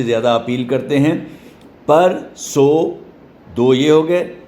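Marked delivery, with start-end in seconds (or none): 1.9-3.0 "پر، سو" very slowly, two separate beats; syllable by syllable. Shown as a demonstration. Teacher showing the preferred regional split, "پر، سو" slowly separated. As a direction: say "پر، سو" with a gap before a full so. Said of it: "جو دوسرے والے syllable ہیں".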